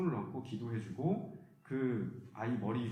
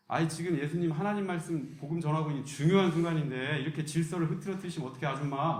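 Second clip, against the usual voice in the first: louder, irritated disciple telling off a mother; scolding disciple; 3 semitones higher, 5 dB louder than usual. Retold or imitated. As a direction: scold her for disrupting. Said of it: "뭐 이렇게 하면서". (질서를 흐트러뜨리는 아줌마를 나무라는 제자, 짜증 섞인 큰 목소리)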